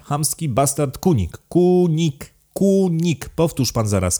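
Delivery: high, forceful count hammering each insult; enraged aristocrat laying down the law; angry tirade. A narrator's reading. Enraged count insists on the name.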